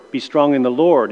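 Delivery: "Lord" given the weight; stress on LORD. Shown as a demonstration. Teacher recalling the drill, stressing "Lord". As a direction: land hard on "Lord". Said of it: "we emphasize a different word".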